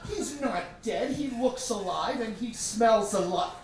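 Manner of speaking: put-on high, indignant child's voice; little sister protesting. Little sister insisting her pet lives, high. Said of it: "And she said".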